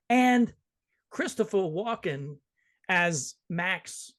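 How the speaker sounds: light imitation with odd halting pauses; Christopher Walken. Host announcing the cast, lightly imitating the actor's halting delivery. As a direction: break the phrase up into isolated, stressed chunks. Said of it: "I won't talk like him".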